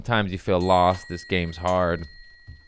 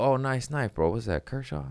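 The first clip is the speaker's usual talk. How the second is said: higher, eager admiring tone; excited greeting; 6 semitones higher than usual. Retold or imitated. Comedian admiring a fan's knife, excited. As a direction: perk up at the sight of a knife. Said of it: "I go".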